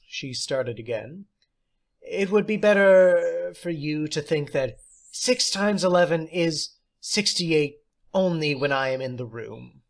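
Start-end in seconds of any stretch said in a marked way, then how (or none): 2.0-9.8 theatrical teacher. Acted. Substitute teacher praising John, high and theatrical. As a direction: play the odd substitute, grand and pleased.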